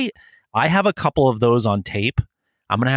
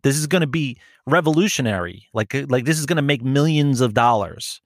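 mock earnest pitch; 4 semitones higher than usual. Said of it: "And I go".

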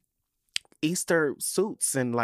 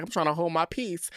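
tag-line impression; 5 semitones higher than usual. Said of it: "We be like".

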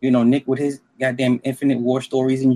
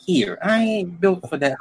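high scared voice; 7 semitones higher than usual. Retold or imitated. Scared of the Bronx bit.

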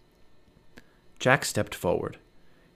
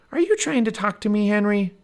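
put-on little girl voice; 10 semitones higher, 4 dB louder than usual. A narrator's reading. Narrator voices Annie.

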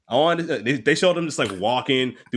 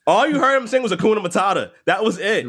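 higher, louder outraged rant; excited rant; 10 semitones higher, 5 dB louder than usual. Real, not acted. Comedian rants to his co-host about the movie, louder and higher. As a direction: rant like the movie owes you one. Ranting about the Lion King song.

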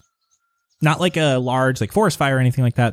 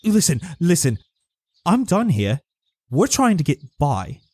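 higher-pitched, fed-up rustic voice; exasperated villager; 5 semitones higher than usual. Acted. Farmer just trying to get by, exasperated. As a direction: lose patience as a put-upon villager.

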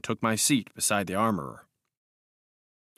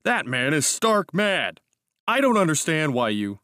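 heated outburst at a friend, higher and louder; 6 semitones higher, 4 dB louder than usual. A narrator's reading. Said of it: "this outburst".

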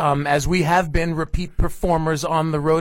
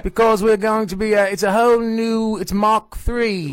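booming warrior king; 4 semitones higher than usual. Acted. Put-on voice in cold-open banter.

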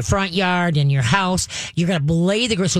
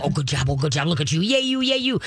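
praise; 2 semitones lower than usual. Shown as a demonstration. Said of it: "You praise him".

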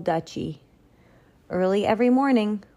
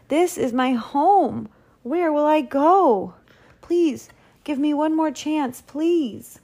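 high, desperate begging; pleading; 9 semitones higher, 3 dB louder than usual. A narrator's reading. Baker begging to stay in his town, pleading. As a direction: implore with the pitch lifted right up. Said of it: "pleaded Walter".

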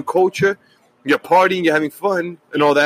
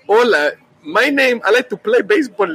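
higher, hammed-up Spanish accent; mock Spanish accent; 8 semitones higher than usual. Shown as a demonstration. Guest showing what he thought accents were, mock Spanish accent. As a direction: demonstrate a stereotypical Spanish accent in a raised pitch. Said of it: "I thought a Spanish accent is".

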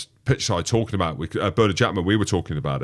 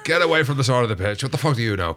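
mock German heckle; 4 semitones higher, faster than usual. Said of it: "I don't know if he sounds German".

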